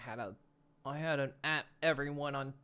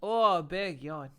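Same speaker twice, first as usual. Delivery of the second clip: slow, lazy exclamations while stretching; drawn-out stretch noises; much slower than usual. Shown as a demonstration. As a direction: stretch out every word like a big yawn. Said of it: "you gotta, you gotta say".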